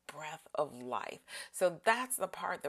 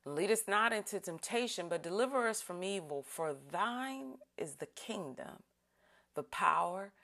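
solemn, measured group prayer; prayer recitation. Acted. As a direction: lead the congregation through the prayer.

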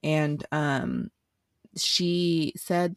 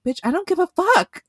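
much higher, much louder exasperated yell breaking into a laugh; retold outburst; 11 semitones higher, 12 dB louder than usual. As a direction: blow up at her, then laugh. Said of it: "And I was like".

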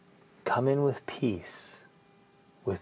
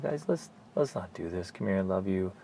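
put-on much softer, tender calming of the kids; tender dad; 5 dB quieter than usual. Dad to fighting kids, soft tender calming. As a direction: hush them lovingly, arm round them.

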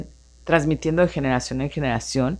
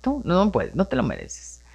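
inner critic voice; 6 dB quieter than usual. Retold or imitated. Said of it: "la vocecita me dice".

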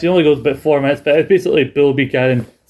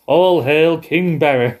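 mock English accent; 2 semitones higher, slower than usual. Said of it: "speaking in an English accent".

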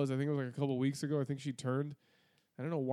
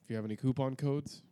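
store announcer. Pretend. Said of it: "You're getting way too into it now".

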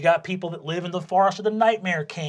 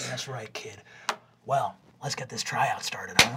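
coach voice; 8 semitones lower, 6 dB quieter than usual. Acted. Coach voice to player.

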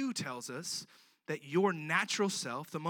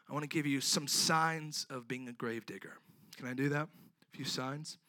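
talking while out of breath; out of breath, short of air. Real, not acted. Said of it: "I'm out of breath for some reason".

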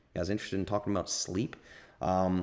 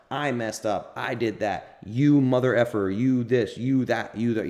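mean self-talk; 3 semitones higher, 4 dB louder, slower than usual. Retold or imitated. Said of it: "I'm being mean to myself".

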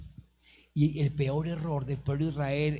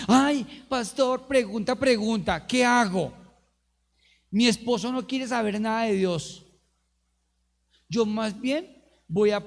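high, louder fussy complaining voice; whiny church lady; 6 semitones higher, 5 dB louder than usual. Retold or imitated. Churchgoer wife whining to the pastor about her husband.

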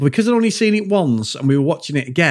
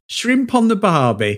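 slow, higher-pitched put-on Australian accent; Aussie accent; 5 semitones higher than usual. Shown as a demonstration. Showing a friend the stock phrase, Aussie accent. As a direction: draw out a stock Aussie catchphrase. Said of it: "you do an Aussie accent".

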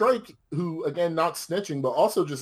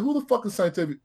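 incredulous cop; 9 semitones higher, faster than usual. Retold or imitated. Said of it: "he said".

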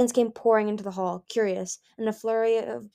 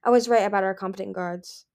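fierce; 4 dB louder than usual. Acted. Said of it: "Coral said fiercely".

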